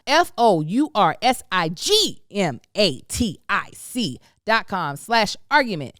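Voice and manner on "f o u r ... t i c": F O U R S I G M A T I C letter by letter, each its own beat; spelling it out. Shown as a demonstration. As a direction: spell out F O U R S I G M A T I C with every letter separate. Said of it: "which is spelled".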